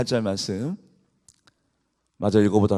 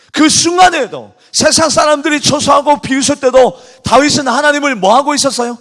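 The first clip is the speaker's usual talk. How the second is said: loud, high, fervent preaching; preaching at full force; 13 semitones higher, 10 dB louder than usual. Acted. Pastor rousing the congregation, loud fervent preaching. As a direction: proclaim it to the whole church.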